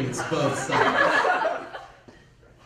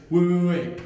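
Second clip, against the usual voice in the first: urgent call to stop; 8 dB louder than usual. Retold or imitated. Friend stops the shove.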